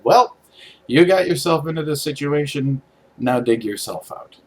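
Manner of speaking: imitating Dad. Dad handing over a spade, mildly stern. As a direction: deliver it like a dry fatherly lesson. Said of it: "and said".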